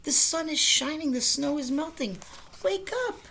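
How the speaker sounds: high, loud and eager; excited loud cry. Acted. Frog urges Toad to wake, loud high excited cry. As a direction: urge him up loudly, high. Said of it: "cried Frog".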